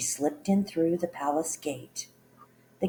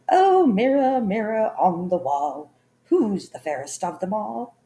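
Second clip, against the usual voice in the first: loud, high, spoiled queen call; shouting queen; 3 semitones higher, 6 dB louder than usual. A narrator's reading. Spoiled queen shouting at her magic mirror. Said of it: "the spoiled and stupid queen would shout".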